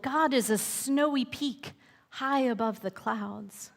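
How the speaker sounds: a hint of mountain rumble; rumbling mountain. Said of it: "that rumbled".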